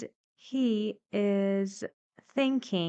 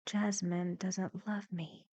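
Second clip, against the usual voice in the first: soft, sunken sad voice; Duncan's gloomy thought, said low and sad; 6 dB quieter than usual. Shown as a demonstration. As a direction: let the line sink low and sad. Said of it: "with very low intonation".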